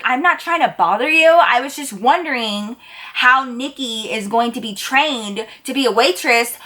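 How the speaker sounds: sassy. Retold or imitated. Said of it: "Like, so much sass".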